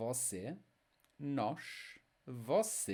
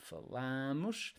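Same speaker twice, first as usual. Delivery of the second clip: "falamos" with LA held, softer; next-to-last stress; 5 dB quieter than usual. Shown as a demonstration. Teacher repeating for word stress, LA held in "falamos". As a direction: softly lengthen LA in "falamos". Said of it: "next to last".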